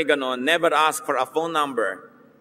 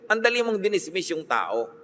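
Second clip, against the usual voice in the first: usual speaking voice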